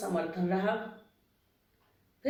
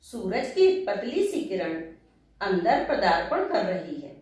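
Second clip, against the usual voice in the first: slow, lilting verse with pitch swoops; poem recitation. Acted. Writer opening her talk with a verse, poetic recitation. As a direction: recite it line by line, pausing after each phrase.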